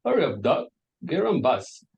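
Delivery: light Midlands voice calling someone duck; mock East Midlands "Hurry up, duck"; a hint of Midlands; Midlands accent. Shown as a demonstration. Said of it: "they speak something like".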